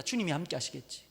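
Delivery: handing it to the Lord with a quiet sigh of 주님이; resigned prayer. Retold or imitated. Runner praying to himself, quiet and resigned. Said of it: "기도가 점점 싸나워져요".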